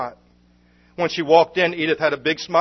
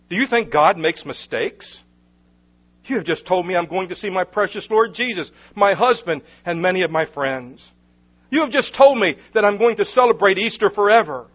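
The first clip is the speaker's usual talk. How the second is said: higher and louder, building with delight; joyful exclamation; 6 semitones higher, 7 dB louder than usual. Acted. Edith tells her doctor she will see Jesus, joyful exclamation. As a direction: rejoice out loud.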